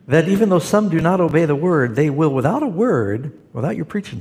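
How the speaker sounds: reading the verse through a real laugh; chuckling through a Bible verse read to a caller; laughing while reading. Real, not acted. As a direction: laugh as you read the words aloud.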